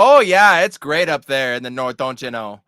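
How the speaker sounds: put-on loud, high Minnesota accent. Joins the Minnesota accent bit.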